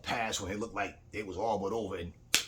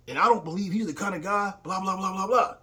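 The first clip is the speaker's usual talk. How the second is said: higher and louder, indignant preaching tone; father's heated defense; 9 semitones higher, 7 dB louder than usual. Retold or imitated. Father scolds son over preacher, mock indignant. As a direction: play the father insisting the preacher is holy.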